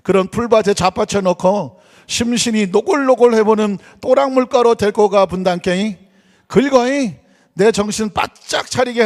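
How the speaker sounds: hammed-up Jeolla dialect reading. Shown as a demonstration. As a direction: read scripture in a broad, folksy Jeolla accent. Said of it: "먼저 전라도 사투리로 시편 이십삼 편을".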